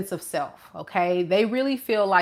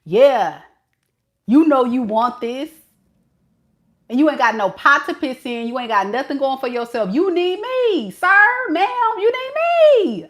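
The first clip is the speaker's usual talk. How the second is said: mocking cocky partner; 3 semitones higher than usual. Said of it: "How you gonna be Peter Pan talking about".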